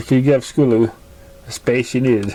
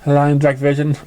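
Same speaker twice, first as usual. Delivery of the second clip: lightly voiced young filly, a bit higher, subdued; young filly telling her story; 5 semitones higher than usual. To a kind listener, filly shares her painful past, lightly voiced.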